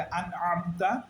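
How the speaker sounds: slow "আনআমতা", the second a from mid-throat; hamza-ain separated. Shown as a demonstration. Teacher recapping the rule, "আনআমতা" with ain kept distinct. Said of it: "হামজা এবং আইন আলাদা করব".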